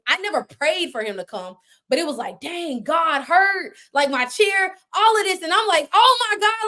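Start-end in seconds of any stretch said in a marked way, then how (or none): 2.4-5.4 slow, drawn-out higher praise shout; praise break. Retold or imitated. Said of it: "a praise break in a sense". 5.9-6.7 high, louder thrilled exclamation; excited. Retold or imitated. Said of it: "I'm excited".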